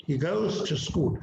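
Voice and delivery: "He goes to school" with "to" cut to a short "tuh"; reduced "to". Shown as a demonstration. Teacher shows to before a consonant, reduced "to". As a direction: say "He goes to school" slowly, "to" unstressed. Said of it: "तो इससे पहले टू का".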